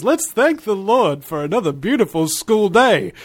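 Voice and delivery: lightly voiced cartoon intercom announcement; Ned Flanders. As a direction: imitate a school intercom prayer, lilting a little. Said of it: "cues in over the intercom and he says".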